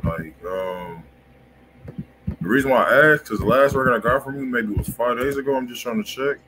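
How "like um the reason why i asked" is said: usual speaking voice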